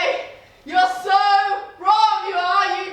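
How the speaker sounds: ordinary talk, nothing marked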